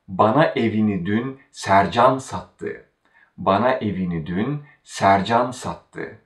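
Sercan made the focus before sattı; stress on Sercan. Shown as a demonstration. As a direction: put the weight on Sercan. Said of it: "What is stressed and focused is Sercan".

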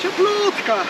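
high squeal of cold; in ice cold water. Real, not acted. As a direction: yelp it through the freezing shock. Wading in the freezing sea.

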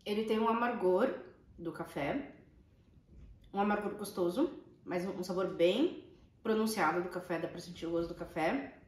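talking with a mouth full of cheese; chewing while talking. Real, not acted. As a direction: talk through a bite you are chewing. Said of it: "agora que eu já engoli, tô falando".

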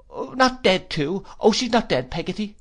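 put-on high, anguished child's voice; fearful pleading. A narrator's reading. Boy fearing his mother is dead, fearful. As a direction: plead it high, dreading the answer.

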